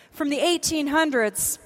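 ordinary delivery

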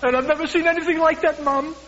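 high, excited son telling his mother; a son bursting with amazement; excited young son. Retold or imitated. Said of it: "he said, 'Mom,'".

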